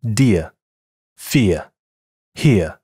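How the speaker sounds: British "dear, fear, here" with a non-rhotic ending; no r sound at the end, British style; British English. Shown as a demonstration. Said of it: "英式英语".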